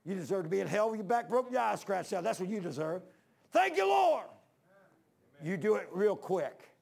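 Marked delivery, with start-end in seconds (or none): 0.0-3.0 rebuking the devil. Retold or imitated. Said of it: "I'll say". 3.5-4.2 high, loud joyful cry to God; joyful praise. Retold or imitated. Preacher thanking God after rebuking the devil, high loud joyful.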